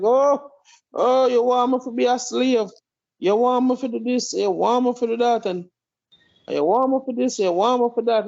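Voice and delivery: mock protest. Speaker mimicking people who balk at instructions, mock protest. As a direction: lightly mimic people objecting. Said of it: "people are like".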